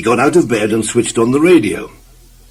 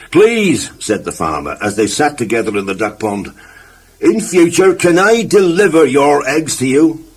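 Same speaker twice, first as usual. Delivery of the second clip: farmer; 4 semitones higher than usual. Acted. Farmer speaks from duck pond.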